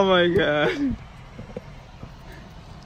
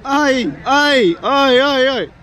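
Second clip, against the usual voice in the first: anxious ay ay ay; 6 semitones higher, 4 dB louder, slower than usual. Real, not acted. Reacting to the game.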